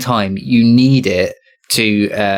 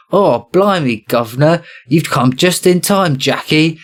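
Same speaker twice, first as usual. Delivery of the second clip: mock Cockney soldier, pitched up, slow on "you've come just in time"; poor English accent; 7 semitones higher than usual. Soldiers greeting the mobster hero in mock cockney accent. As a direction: ham up a bad cockney "blimey, governor". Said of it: "sort of poor English accents going".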